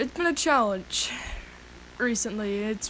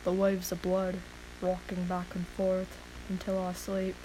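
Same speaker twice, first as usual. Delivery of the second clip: poem reading; 3 dB quieter than usual. Acted. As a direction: recite it softly, heavy-hearted. Reads her own poem.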